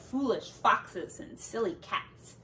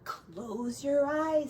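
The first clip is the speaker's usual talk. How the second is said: calm invitation; 3 semitones higher, slower than usual. Acted. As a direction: lull them to close their eyes. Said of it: "said Frederick".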